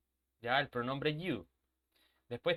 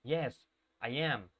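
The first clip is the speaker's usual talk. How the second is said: slow model answers; 4 semitones lower, much slower than usual. Shown as a demonstration. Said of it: "siempre te enseñan a decir".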